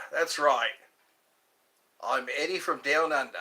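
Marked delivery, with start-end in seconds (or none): 2.0-3.4 quick put-on Aussie accent; mock Australian accent. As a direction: introduce yourself as a mock Australian. Playing at being Australian.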